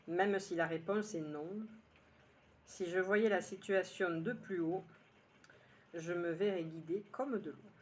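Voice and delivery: measured poem recital with pauses between lines; unhurried phrase-by-phrase recitation; poem reading. Acted. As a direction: read your poem line by line, letting each one settle. Rereads the poem a second time.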